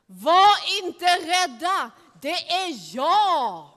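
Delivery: slow, loud call over the storm; called out slowly into a storm; calling back. Acted. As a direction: reassure them across the wind. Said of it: "spöket ropade tillbaka i stormen".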